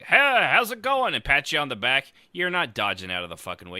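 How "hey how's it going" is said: friendly bar greeting. Retold or imitated. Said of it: "comes and's like".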